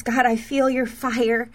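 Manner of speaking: slow, hushed reading of a prophetic word; slow and deliberate prophetic read. Acted. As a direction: read it out slowly, as if the fire is falling now. Reads out a written prophetic word.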